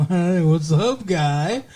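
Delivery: slurred mock-tipsy greeting; lightly voiced tipsy woman; tipsy flirting. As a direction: imitate a tipsy come-on. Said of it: "She gets nice and tipsy".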